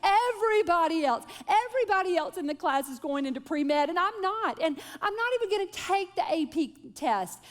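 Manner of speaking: lightly voiced stressed-out high schooler; whiny teen. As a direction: mimic a frantic daughter listing excuses. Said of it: "how many kids say".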